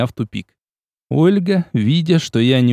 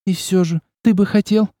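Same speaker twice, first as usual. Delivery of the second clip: higher, insistent question; more insistent; 8 semitones higher than usual. A narrator's reading. Olga pressing the prince, insistent. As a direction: press him for an answer. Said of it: "Её голос прозвучал настойчивее".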